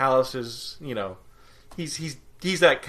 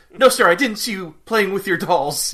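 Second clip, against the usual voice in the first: loud, high mock soldier's reply; imitated film underling, pitched up; Colonel Sanders; 7 semitones higher, 9 dB louder than usual. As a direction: act out a nervous underling answering the boss.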